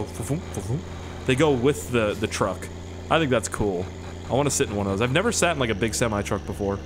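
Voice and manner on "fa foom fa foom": soft whooshing "fa-foom" noises; quiet puffed sound effect; imitated bouncing seat. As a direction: softly mimic hydraulic springs bouncing.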